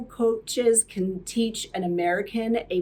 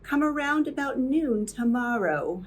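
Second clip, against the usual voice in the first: Katharine Hepburn trill; 3 semitones higher than usual. Retold or imitated. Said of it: "Hepburn trills with a full-bodied pronunciation".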